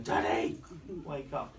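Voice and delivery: brief loud call, then easing; half-acted child's wake-up call; imitating his children. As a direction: lightly mimic kids rousing a parent. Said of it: "the children would be going".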